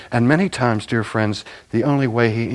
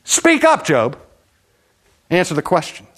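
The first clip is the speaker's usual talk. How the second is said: demanding God; 7 semitones higher than usual. Acted.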